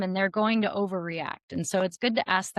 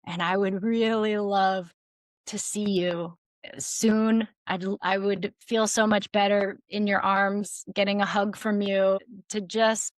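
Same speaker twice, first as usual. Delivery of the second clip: vulnerable request. Shown as a demonstration. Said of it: "you could come to someone and say".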